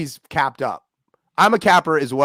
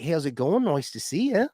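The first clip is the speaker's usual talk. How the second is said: Kiwi upspeak; 3 dB quieter than usual. Shown as a demonstration. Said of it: "sounds like this".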